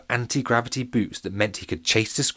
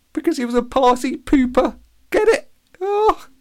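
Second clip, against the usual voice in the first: very high, loud squealing laugh-line; cackling at own joke; 8 dB louder than usual. Real, not acted. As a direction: squeal the punchline, delighted with yourself.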